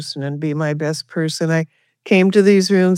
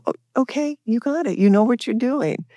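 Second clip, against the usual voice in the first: mock sponsor voice; 6 semitones higher than usual. Sponsor's reply voiced high.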